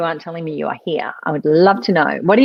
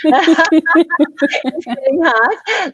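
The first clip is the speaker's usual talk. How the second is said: laughing through words; 7 semitones higher, 4 dB louder, much slower than usual. Real, not acted. Host laughing at her own joke.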